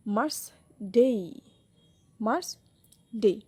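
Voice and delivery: মার্স ডে split slowly, weight on ডে; মার্স light, then a drawn-out ডে; stress on second syllable. Shown as a demonstration. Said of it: "ডের এনে stress syllable".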